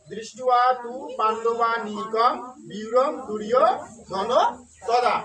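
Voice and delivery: দৃষ্টুয়া তু পাণ্ডবা নিকম slowly, part by part; spaced-out reading, ending দুর্য (du-ri-yo), ধন, তদা; model recitation. Shown as a demonstration. Teacher recapping the line's pronunciation, slow model recitation. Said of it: "তাহলে উচ্চারণ কি আসলো".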